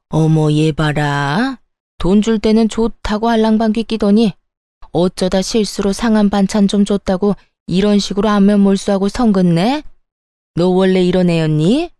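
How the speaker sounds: a hint of a haughty mother-in-law mocking her; mild scornful mother-in-law voice; sneering mother-in-law.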